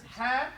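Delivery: Hadith with the first syllable held out alone; teacher giving Hadith slowly for repetition; model to repeat. Shown as a demonstration. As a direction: sound out Hadith, leaning on HA. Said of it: "Say this".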